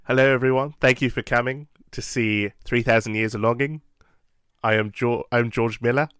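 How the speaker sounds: a hint of a faked Australian accent; mild mock Australian accent for a cinema greeting; bad Australian accent. Director thanks the audience in a mild fake Australian accent. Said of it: "That's my terrible Australian accent".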